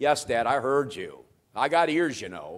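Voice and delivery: slow, cheeky, snarky tone. Retelling a childhood reply to a father's question: imitating a snarky reply. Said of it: "in some snarky way".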